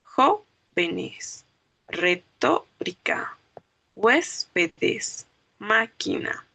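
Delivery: "Jóvenes, retórica, huéspedes, máquina" broken after the stressed "Jó", "tó", "hués", "má"; antepenultimate stress. Shown as a demonstration. Teacher gives esdrújulas examples, split words with antepenultimate stress. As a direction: separate each word, hitting the third syllable from the end. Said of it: "van a llevar el acento en el antepenúltimo lugar".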